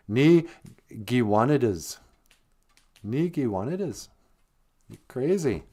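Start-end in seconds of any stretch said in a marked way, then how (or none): 0.1-4.1 "Ni Giwanidas" with Ni set apart, falling end; Ojibwe phrase. Shown as a demonstration. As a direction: model "Ni Giwanidas" for the learner. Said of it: "you drop the I and you just say".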